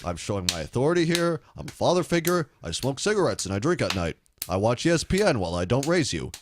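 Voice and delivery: a lightly voiced Obama, calm and paternal; Obama impression. Obama addressing the nation, low and measured. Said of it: "That's actually a decent Obama impression".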